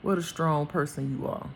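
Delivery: low, measured voice with long pauses; God's voice, tender. Acted. God tells his child how strong they are, solemn and tender. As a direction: speak solemnly, as God affirming a beloved child. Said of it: "I even hear him saying".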